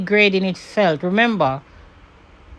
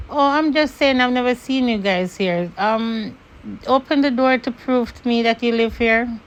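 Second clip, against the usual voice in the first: higher, sweetly condescending; mock polite neighbour; 4 semitones higher than usual. Imitating the neighbour demanding proof, lightly raised pitch. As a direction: talk down to them with a polite edge. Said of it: "And she was like".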